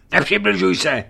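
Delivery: loud, high shout of warning. A narrator's reading. Stranger shouting at Dmitrij to keep away, loud and high. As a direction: stop him in his tracks. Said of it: "vykřikl neznámý".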